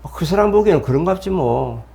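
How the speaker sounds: an easy-going "whatever"; carefree shrug. Shown as a demonstration. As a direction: let it roll off you. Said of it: "그냥".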